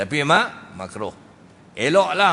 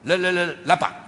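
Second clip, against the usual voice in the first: stammering demo; 2 semitones higher, faster than usual. Shown as a demonstration. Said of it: "gagap ni".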